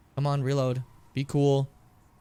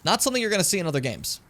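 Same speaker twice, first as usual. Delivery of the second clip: ordinary talk, nothing marked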